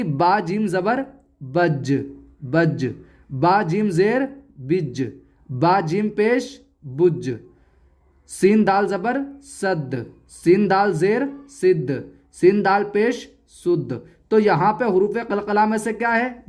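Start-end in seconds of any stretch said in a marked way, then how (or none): 0.0-7.3 बज, बिज, बुज with the final j released in a jolt; qalqalah bounce. Shown as a demonstration. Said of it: "ऐसे ही". 8.3-14.0 सद, सिद्ध, शुद्ध with the final d bounced; qalqalah bounce. Shown as a demonstration. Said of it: "तो इनमें कलकला होगा".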